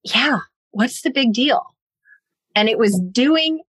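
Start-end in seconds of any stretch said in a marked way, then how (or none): 0.0-1.6 mild mock echo of Yeah, what's the big deal, rising; wife echoing her husband's line with mild sarcasm; sarcastic echo. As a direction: throw his words back at him lightly. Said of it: "And I'm like".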